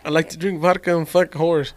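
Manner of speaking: lightly put-on Russian accent; a hint of mock Russian accent. Copying his friend's line, light Russian accent. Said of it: "they just practice on these accents".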